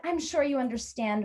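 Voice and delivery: lightly voiced "you understand" tone; mildly leading, polite hint; expectant hinting. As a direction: nudge for agreement. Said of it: "way, expecting me to respond".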